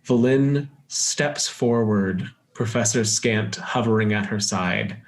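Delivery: deliberate game master narration; scene setting. Acted. Game master reveals the frozen waterfall, deliberate narration. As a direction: unveil the sight like a storyteller.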